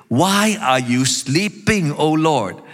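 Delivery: slow, pleading reproach; emotional plea. Acted. Psalmist calling on the Lord to wake, emotional plea. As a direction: urge a sleeping God to wake, stretched out. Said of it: "Can you feel the emotional tone?".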